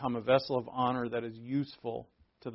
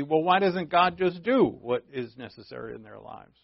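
rising, puzzled mock objection, higher; incredulous question; 4 semitones higher than usual. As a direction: voice the listener's doubting complaint. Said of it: "the next thought in your head may be".

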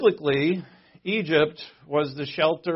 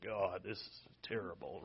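mock dismayed aside; 8 semitones lower, 19 dB quieter than usual. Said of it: "And he's like".

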